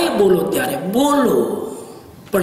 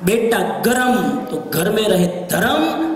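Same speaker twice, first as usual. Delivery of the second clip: recited saying; slower than usual. Shown as a demonstration. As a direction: recite the variant with weight. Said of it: "second version of saying".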